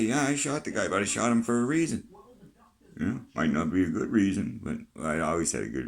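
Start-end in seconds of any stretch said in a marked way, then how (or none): 0.0-2.1 defiant admission. Retold or imitated. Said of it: "So you stand up and say".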